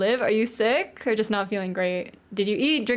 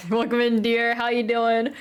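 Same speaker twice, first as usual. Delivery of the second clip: put-on British accent. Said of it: "practice how to do a British accent".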